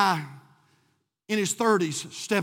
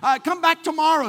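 raised-pitch protest from a window; mock holler; 5 semitones higher than usual. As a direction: complain at a late-night caller, half hollering. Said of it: "his friend hollered out of the window".

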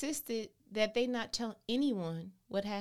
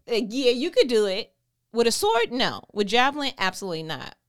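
louder, playful back and forth; loud mock banter; 7 dB louder than usual. Preacher acting out David's weapon choices, loud and playful.

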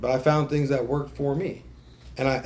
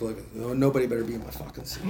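mock possessive. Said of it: "I'm like".

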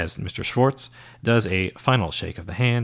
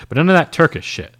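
raised, higher warning call; 7 semitones higher, 5 dB louder than usual. Acted. Agent warns secretary about the coffee, a raised call. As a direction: call a last warning after her. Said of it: "Marvin warns".

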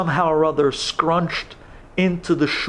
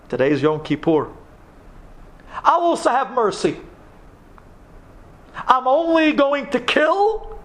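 tower over them, daring someone to confess; menacing Pasha; 8 semitones higher than usual. Retold or imitated. Pasha threatens the trembling congregation, high and menacing. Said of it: "the Pasha looks around and says".

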